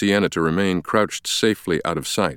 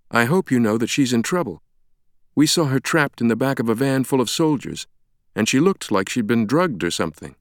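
higher-pitched, composed explanation; take-charge woman doctor; 5 semitones higher than usual. Acted. Sienna explains Langdon's amnesia to Ferris, taking charge. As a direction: step in and take control.

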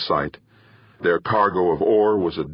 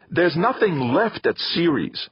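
a slower, higher bitter snap; snapped; 12 semitones higher, slower than usual. A narrator's reading. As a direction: shut his sister down sharply. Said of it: "Theo snapped".

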